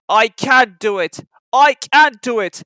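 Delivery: puffing engine. A narrator's reading. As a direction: chug it out hard. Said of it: "he puffed".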